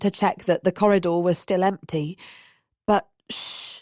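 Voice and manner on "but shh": whispered shush. A narrator's reading. Hushing him in empty corridor.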